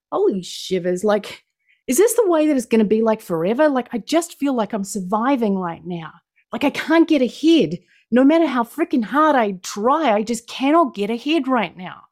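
mildly exasperated, pitch jumping up in places; acted frustration. Presenter voicing someone just surviving, mock exasperated. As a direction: voice someone stuck and fed up, lightly dramatised. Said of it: "I know what it feels like to walk through life going".

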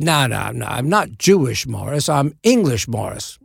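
insistent mock-Cockney; imitated Cockney, stressing the contrast; Michael Caine. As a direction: correct someone in a rough London star impression. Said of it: "This is a terrible Michael Caine impression".

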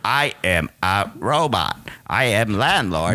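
monotone robot voice; flat mechanical robot voice. Acted. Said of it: "lose robot voice".

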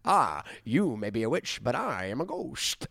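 drawn-out mock ghost delivery; quoting ghost. Man retelling a TV ghost's line, slow mock drama. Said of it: "And he goes".

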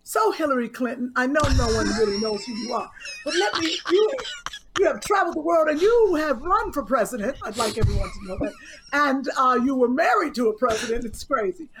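lightly hammed-up interviewer piling up a guest's credits; a hint of a host giving a whole bio first; mock host interview. Friend parodying the host's interviews to tease her. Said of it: "Kim, that was the perfect example".

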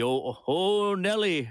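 a quick hint of a veteran football announcer's exclamation; Keith Jackson call. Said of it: "a Keith Jackson sort of, um, character on the, the Simpsons".

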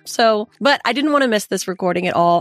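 hoarse from a cold; croaky sick voice; frog voice. Real, not acted. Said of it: "excuse my frog voice".

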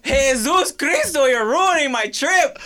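laughing whine. Pretend. Mock tourist complaint.

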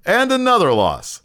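mock play-by-play, stepping down with each repeat; Michael Cole. Commentator calling loss after loss, mock announcing. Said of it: "you hear Michael Cole says".

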